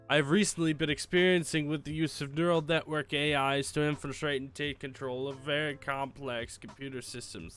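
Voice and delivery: theatrical evil mastermind voice; panto villain. Acted. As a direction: ham it up like a cartoon villain. Reads villain's email in voice.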